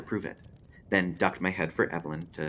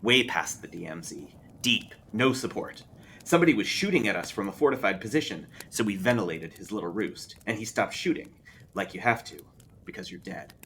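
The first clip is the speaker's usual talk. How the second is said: raised, tense soldier recounting combat; veteran Lou's war story; 3 semitones higher than usual. Acted. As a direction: push it out like a grim old soldier.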